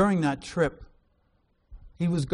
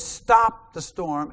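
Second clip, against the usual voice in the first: drawn-out, louder command on STOP; firm rebuke; 3 semitones higher, 5 dB louder, much slower than usual. Acted. Jesus halting the storm, firm rebuke. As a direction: order it like casting out a demon. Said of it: "rebukes it like he was casting out a demon".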